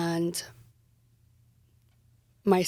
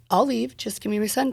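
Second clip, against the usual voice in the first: pleading; 4 semitones higher than usual. Retold or imitated. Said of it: "the negotiation was over".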